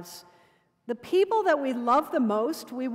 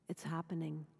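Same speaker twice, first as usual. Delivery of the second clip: breathless, voiceless whisper of a dying man; 7 semitones lower, 15 dB quieter than usual. A narrator's reading. Dying man whispers to the woman he loves, voiceless. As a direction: barely get the words out, fading.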